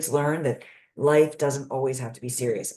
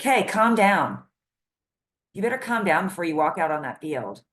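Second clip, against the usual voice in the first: irritated parent scolding; 3 semitones higher, 3 dB louder than usual. Retold or imitated. Parent scolding an anxious kid before practice, loud and impatient. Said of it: "you're like".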